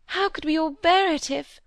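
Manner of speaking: rising anguish, voice cracking off; distressed. Acted. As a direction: let the fear cut her short. Molly breaking off in fear.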